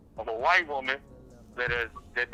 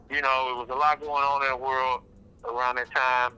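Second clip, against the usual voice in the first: speaking through a face mask; muffled voice behind a mask. Real, not acted. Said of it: "sorry if I sound muffled too".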